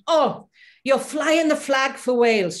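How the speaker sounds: proud, grand and slow; a diva singer's voice. Retold or imitated. Praising the Welsh singer, a grand slow diva voice.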